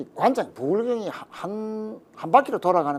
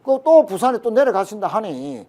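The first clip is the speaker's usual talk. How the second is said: lightly voiced party leader, higher and emphatic; Kim Dae-jung; 4 semitones higher, 5 dB louder than usual. Party leader retold encouraging his deputy, lightly imitated. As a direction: retell a leader's hearty approval in a raised pitch. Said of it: "김대중 대통령이 엄청 웃으셨겠네".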